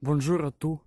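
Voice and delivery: halting French with a Ukrainian accent; non-native French, searching for words; broken french. Real, not acted. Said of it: "Je parle un peu français".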